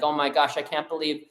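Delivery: lightly acted whiny complainer; mock complaining. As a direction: imitate someone grumbling that everything's unfair. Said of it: "just sits around and complains and moans and being like".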